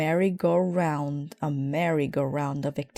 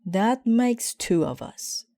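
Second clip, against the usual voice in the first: rueful Papa; 6 semitones higher than usual. Acted. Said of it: "said Papa".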